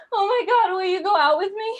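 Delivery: high, loud gush; smitten fan. Retold or imitated. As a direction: swoon out loud like a besotted fan. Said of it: "I was always in the audience like".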